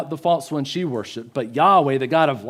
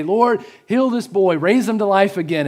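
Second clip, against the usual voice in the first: pleading prayer; 5 semitones higher, 3 dB louder than usual. Retold or imitated. Elijah asks the Lord to raise the boy, pleading. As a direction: pray aloud with a higher voice. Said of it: "He doesn't just say".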